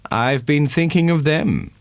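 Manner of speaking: lightly voiced pleading suitor; Angel's voice. A narrator's reading. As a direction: coax her gently about the children.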